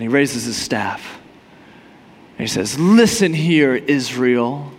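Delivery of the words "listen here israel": steady and composed, an easy command; calm, collected. Retold or imitated. Moses confidently addresses Israel, calm and collected. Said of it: "He's calm, cool, collected".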